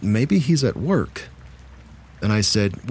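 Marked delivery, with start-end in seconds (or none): 0.0-1.2 put-on higher, slow and puzzled like a little boy; confused child. Four-year-old telling mom where dad is, slow and puzzled. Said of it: "and he says".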